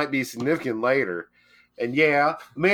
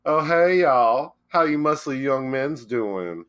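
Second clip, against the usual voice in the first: unicorn voice; slower than usual. Retold or imitated. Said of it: "It was all like".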